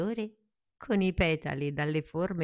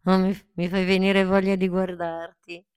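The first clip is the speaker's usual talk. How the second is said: admiring; 5 semitones higher, 9 dB louder than usual. Acted. Tree admires the flower.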